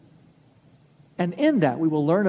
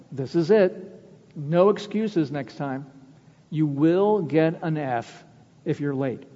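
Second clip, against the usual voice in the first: stern warning. Retold or imitated. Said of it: "but warned".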